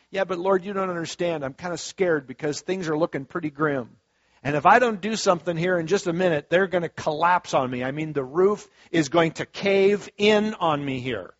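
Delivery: hammed-up fear that the roof caves in; mock panicked plea. Scared believer pleading, acted.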